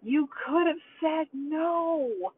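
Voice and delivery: high, slow and firm; each word set down to make her listen; stern scolding. Retold or imitated. Grandma scolding granddaughter after banging the counter, high, slow and stern. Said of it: "I scared her so much".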